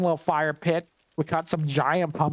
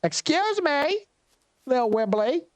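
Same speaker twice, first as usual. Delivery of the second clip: mock indignant; 10 semitones higher, slower than usual. Teasing neighbour who ignored her.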